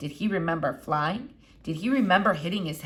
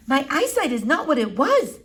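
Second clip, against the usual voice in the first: lightly voiced elderly foreign lady, higher; a hint of an old eccentric doctor; Doctor Measham; 7 semitones higher, 5 dB louder than usual. A narrator's reading. Old doctor peering at the squirrel, lightly foreign.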